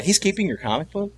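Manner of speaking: mother can't believe what her son says; a lightly voiced incredulous mom. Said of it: "she's like".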